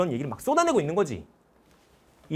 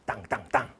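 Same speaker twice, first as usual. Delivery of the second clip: imitated gavel bangs; 8 semitones lower, 6 dB quieter than usual.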